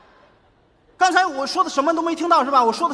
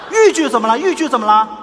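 loud, indignant challenge, said twice over; indignant outburst; 2 semitones lower, 7 dB louder than usual. Acted. Comic defends his hometown opera against his partner, indignant and loud. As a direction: burst out defending what is yours.

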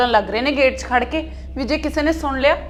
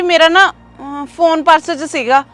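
slow, louder, a sob breaking in; tearful excuse; 4 dB louder, slower than usual. Acted. Daughter-in-law explains to mother-in-law while crying. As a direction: stammer the excuse through tears.

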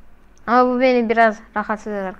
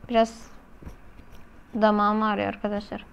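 strained, softer voice from a sore throat; 7 dB quieter than usual. Real, not acted. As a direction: speak with an aching throat. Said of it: "Biraz sesim kötü geliyor olabilir".

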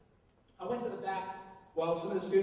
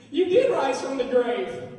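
excited exclaim; 2 semitones higher, 7 dB louder, slower than usual. Retold or imitated. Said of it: "And he's like".

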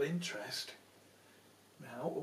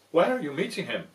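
nervous fox; 3 semitones higher, 11 dB louder, faster than usual. Acted.

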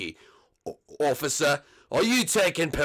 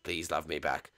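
lovesick boss; 8 semitones lower, 8 dB quieter than usual. Acted. Boss confesses love.

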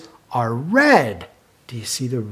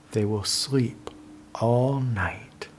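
much softer, sleepy voice; hushed; 5 semitones lower, 11 dB quieter than usual. Acted. Reading bedtime line softly to child. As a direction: lull them down.

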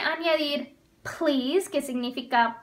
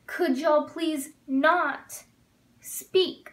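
slow model phrase; 2 semitones higher, much slower than usual. Shown as a demonstration. Teacher modeling a y'all command for students, slow. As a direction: lift speak at the end. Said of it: "teacher modeling y'all command".

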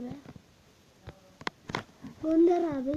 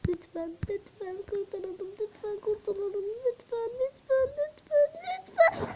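desperate pleading; 5 semitones higher than usual. Real, not acted. Begging keeper to save penalty.

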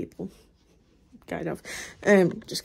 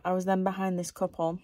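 ordinary talk

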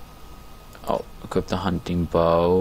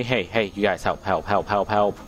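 higher, urgent calls for help; panicked cries for help; 10 semitones higher than usual. Real, not acted. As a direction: yell for help, scared. Calling for help.

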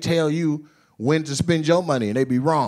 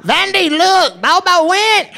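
very high, excited mock Asian dealer accent; hammed-up Asian dealer, squealed high; happy Asian dealer; 5 dB louder, slower than usual. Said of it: "I perfected that voice".

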